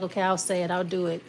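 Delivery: mild, low-key agreement; compliant reply. Acted. Querent agreeing to do it for someone, compliant. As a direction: give in without pushing.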